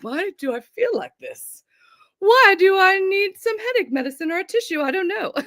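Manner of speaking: high-pitched whiny wail; playful mock despair, voice climbing high; mock whining. Imagined complaint on feeling unwell.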